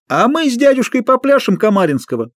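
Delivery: high showman's announcement; circus clown voice. Acted. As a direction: announce it to the crowd. (клоунское объявление)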